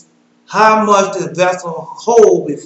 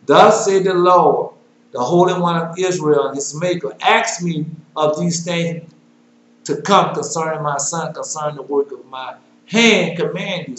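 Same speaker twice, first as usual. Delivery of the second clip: solemn scripture reading. Acted. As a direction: proclaim the verses like a preacher. Preacher reads scripture aloud.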